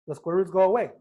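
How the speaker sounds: ordinary delivery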